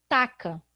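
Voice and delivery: taca with a hard k sound; wrong reading. Shown as a demonstration. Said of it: "vou escrever".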